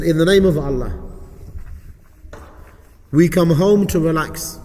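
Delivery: dictation pace with long pauses between phrases; slow repeat reading. Shown as a demonstration. Teacher repeating the supplication so students get it, slow dictation. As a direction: read it out slowly, leaving gaps to follow. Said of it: "I'll read it a bit slowly for you".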